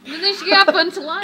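indignant exclaim. Real, not acted. Exclaiming over interruption.

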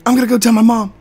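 put-on high, eager kid voice; excited kid. Fan running off to tell his mom, high excited. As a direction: gush like a thrilled little fan. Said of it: "And then he's like".

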